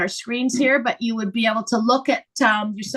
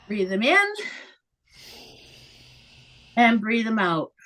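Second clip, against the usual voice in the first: guided breathing cue; 4 semitones lower than usual. Shown as a demonstration.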